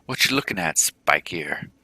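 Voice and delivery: loud, rising sneer; loud jeering chiphead taunt; hostile challenge. Acted. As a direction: bark it at the stranger. Hostile chiphead confronts the player.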